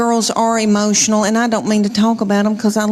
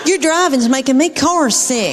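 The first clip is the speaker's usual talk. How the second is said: higher-pitched imitation of a griping daughter; mock complaining child; 4 semitones higher than usual. Daughter to mom who is driving, mock whining. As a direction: play up a kid's carsick complaint.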